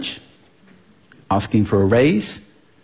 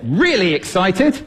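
bursting out on "really excited"; startlingly excited, raised pitch; excited volume; 6 semitones higher, slower than usual. Shown as a demonstration. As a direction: punch it up with sudden excitement. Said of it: "by using volume".

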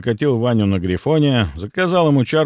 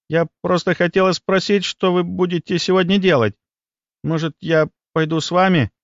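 put-on a touch timid, higher-pitched girl; 8 semitones higher than usual. A narrator's reading. Girl asks to join the boys, timidly. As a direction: ask shyly in a lightly raised voice. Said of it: "несмело спросила она".

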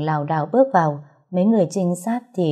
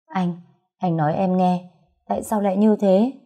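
crying. Acted. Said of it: "Tuệ Lâm khóc lóc thảm thiết".

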